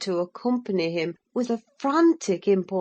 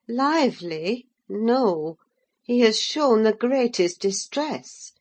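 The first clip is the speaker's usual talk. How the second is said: a lightly voiced worried housekeeper. Voices Nelly in dialogue.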